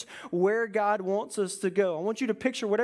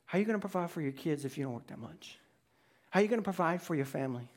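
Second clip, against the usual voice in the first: fearful taunt; 5 semitones lower, 6 dB quieter, much faster than usual. Acted. He uses fear.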